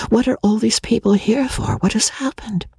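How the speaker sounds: nearly whispered, worried; anxious hushed question. Acted. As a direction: ask under your breath, uneasy. Magnolia asks anxiously.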